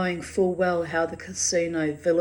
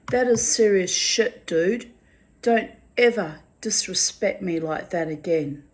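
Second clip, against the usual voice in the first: stern scolding; 4 dB louder than usual. Retold or imitated. Scolding drunk neighbour over threat.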